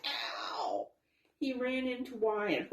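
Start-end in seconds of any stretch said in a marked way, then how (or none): 0.0-0.9 whispered, fading yelp; breathy ow. A narrator's reading. Walter running off, fading whispered yelp. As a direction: let the ow trail off breathless. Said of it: "he cried".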